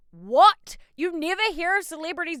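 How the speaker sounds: loud, rising disbelieving what; stunned. Real, not acted. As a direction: shout it in disbelief. Amazed at the gesture.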